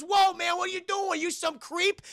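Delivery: high-pitched mock alarm; acted high, indignant surprise; startled protest. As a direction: yelp it as a startled bystander. Acted startled reaction to being hit.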